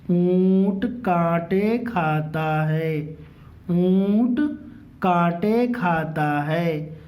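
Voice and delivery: very slow, drawn-out primer reading with long vowels; model reading. Shown as a demonstration. Teacher models primer sentences for pupils, slow drawn-out reading. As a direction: stretch each word for learners to follow.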